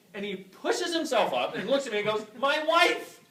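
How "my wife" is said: high loud cry with a laugh; excited shout. Retold or imitated. Patient pushes up and shouts the answer, high and loud. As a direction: blurt it out, amazed.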